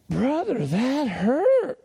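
pained Oklahoma drawl pitched high; high, pained Oklahoma twang; Oklahoma accent. Retold or imitated. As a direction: complain in an Oklahoma accent, hurt. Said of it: "with that Oklahoma accent".

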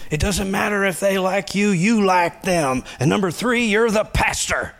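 high, emphatic mother voice; mother's punchline. Acted. Mother telling her pastor son, high and emphatic. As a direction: land the punchline as the fed-up mom.

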